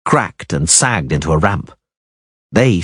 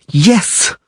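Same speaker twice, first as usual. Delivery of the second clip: groaned; 11 semitones higher than usual. A narrator's reading. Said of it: "she groaned".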